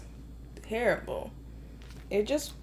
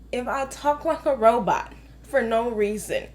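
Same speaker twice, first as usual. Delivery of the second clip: usual speaking voice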